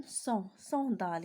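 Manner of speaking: "son, sandale" drawn out slowly; slow classroom pronunciation; slow spelled-out pronunciation. Shown as a demonstration. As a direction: model the words slowly for pupils. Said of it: "S plus A N".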